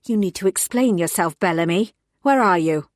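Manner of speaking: loud, clipped reprimand; angry scolding. Acted. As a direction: tear a strip off the junior officer. Angry boss scolding on phone.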